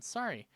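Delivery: "Sorry" with an open AH, as SAH-ree; high falling "Sorry", first vowel like "car". Retold or imitated. Repeating his apology to the man, "Sorry" said SAH-ree. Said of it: "I don't say sorry".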